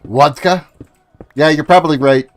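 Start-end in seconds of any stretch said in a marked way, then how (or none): 0.0-0.7 "Vodka" with a W sound at the start; "Vodka" begun with rounded lips, as "wodka". Shown as a demonstration. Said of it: "get the W going in there".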